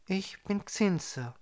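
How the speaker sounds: a calm, kind guardian greeting a stranger; friendly. A narrator's reading. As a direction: introduce yourself gently and slowly. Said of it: "erwiderte die Frau freundlich".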